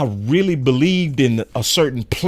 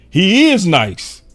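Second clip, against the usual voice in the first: excited; 7 semitones higher, 4 dB louder, slower than usual. Retold or imitated. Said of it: "was like".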